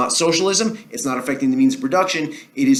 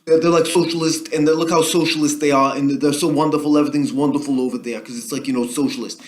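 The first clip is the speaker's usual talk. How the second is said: lightly voiced gushing politician; a hint of a politician holding up a model country; Bernie Sanders. Politician pointing voters to Denmark as a wonderful example, light impression. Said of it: "Bernie Sanders went out there and said".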